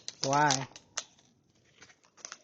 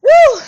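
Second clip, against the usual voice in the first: very high, very loud whoop; shrieking woo; 16 dB louder than usual. Real, not acted. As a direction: let out a big woo. Reacting to a difficult person.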